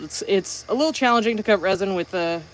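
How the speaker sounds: muffled voice behind a visor; behind face shield. Real, not acted. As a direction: speak through a face shield. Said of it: "sorry, I'm talking into the face shield".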